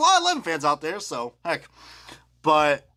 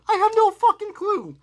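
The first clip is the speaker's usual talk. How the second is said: exasperated; 11 semitones higher than usual. Real, not acted. Ranting about small logos.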